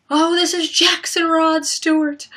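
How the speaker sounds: put-on high, slow goofy boy voice; imitating Jackson. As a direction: ham up the goofy brother. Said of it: "and then he's like".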